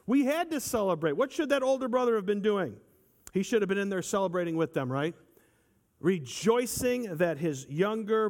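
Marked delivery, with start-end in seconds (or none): 0.1-4.7 fervent preaching. Acted. Preacher proclaiming the father's joy, building.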